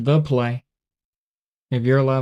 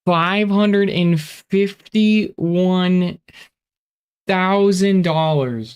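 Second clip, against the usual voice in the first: excited; 6 semitones higher, 3 dB louder, slower than usual. Real, not acted. Amazed at huge cash reward.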